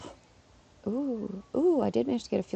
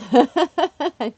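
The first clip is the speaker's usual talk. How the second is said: slow drawn out; 8 semitones higher, 9 dB louder than usual. Real, not acted. Drawn out after laughing.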